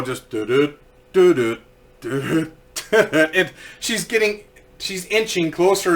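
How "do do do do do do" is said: low little hoofbeat sing-song; slow plodding horse. Retold or imitated. Horse ambles toward the low branch, slow plodding noise. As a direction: imitate a horse plodding along. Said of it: "horse is going so slow".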